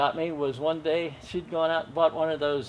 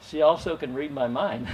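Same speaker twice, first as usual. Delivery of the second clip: laughing. Real, not acted. Punchline, laughing.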